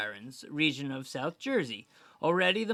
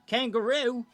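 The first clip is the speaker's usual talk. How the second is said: surprised; 7 semitones higher, 5 dB louder than usual. Real, not acted. Incredulous reaction to the list.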